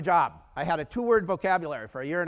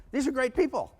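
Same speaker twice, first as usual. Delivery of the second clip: high, gushing delight; retold enthusiasm; 8 semitones higher, 3 dB louder than usual. Happy new hire praising small business clients, high-pitched enthusiasm. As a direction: gush like a thrilled newcomer.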